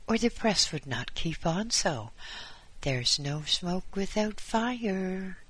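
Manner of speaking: high, insistent fussy voice; insistent visitor. Acted. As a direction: press the point eagerly.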